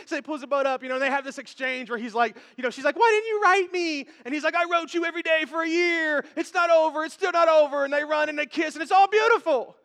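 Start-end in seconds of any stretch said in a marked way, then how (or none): 3.0-4.1 high, loud mock reproach; melodramatic movie lover. Movie heroine to her lover, melodramatic reproach. Acts lovers' film confrontation. 4.5-7.8 raised, swelling mock passion; melodramatic movie hero. Movie hero declaring love to her, hammed-up passion. Acts film hero's declaration.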